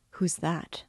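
thick, gasping voice in horror; breathless fright. A narrator's reading. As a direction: gasp it out, terrified. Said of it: "in a thick, gasping voice, in agitation".

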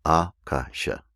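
Akasha with the first syllable stressed; Sanskrit pronunciation. Shown as a demonstration. Teacher shows the proper pronunciation of Akasha. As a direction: say Akasha as AH-kah-sha. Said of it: "proper pronunciation".

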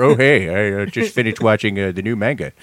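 lightly voiced rock singer; a hint of a brainy rock singer; smart-sounding rock singer. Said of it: "smart sounding Eddie Vedder".

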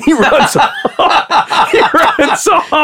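cracking up at his own story; laughing. Real, not acted. Telling the cohost about Bob's dog, laughing. Funny story of the grazed shot.

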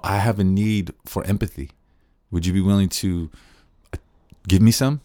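invite, don't insist; gentle request. Shown as a demonstration. Teacher modelling the better way to ask for empathy. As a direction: open ask ending on a light rise. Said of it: "That's, that's better".

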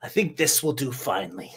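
satisfied whisper. Acted. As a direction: murmur it to yourself, pleased. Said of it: "He goes".

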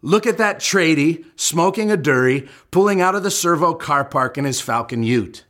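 put-on a light Australian accent, quoting a young colleague; a hint of an Australian accent, imitating the colleague. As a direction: rattle off the slang in a mild Australian accent. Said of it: "I'm not gonna do the accent".

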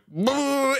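high buzzing motor noise; imitated motor noise. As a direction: make the sound of a motor. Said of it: "it's gonna go like".

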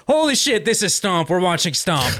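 high-pitched sudden thrill; excited. Retold or imitated. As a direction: burst out with childlike delight. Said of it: "I'm like".

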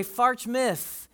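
Farch Myth said for March fifth; the kids' Farch Myth, with the sounds swapped; childish mispronunciation. Retold or imitated. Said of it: "none of them could say it".

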